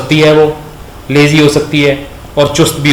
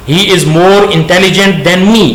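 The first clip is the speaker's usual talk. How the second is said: slow dictation; 3 semitones higher, much slower than usual. Shown as a demonstration. Teacher dictating example sentence.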